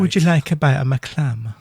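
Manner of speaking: Hammond's Edinburgh lilt offering clam; Scottish accent. Retold or imitated. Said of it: "hence the accent".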